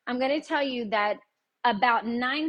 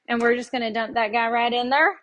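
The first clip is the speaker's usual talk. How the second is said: real Tennessee twang, a bit louder; Tennessee accent; 5 dB louder than usual. Real, not acted. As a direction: let the Tennessee accent slip out, rising at the end. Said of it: "I turned a hundred percent Tennessee".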